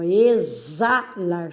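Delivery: "exalar" slowly, stretched at the za; separando sílabas. Shown as a demonstration. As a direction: draw out "exalar" syllable by syllable. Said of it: "aí também". ("exalar" devagar, destacando as sílabas)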